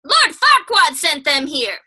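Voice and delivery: slow, lightly voiced donkey; a hint of the chatty sidekick; lightly played Donkey explaining. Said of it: "And then Donkey says".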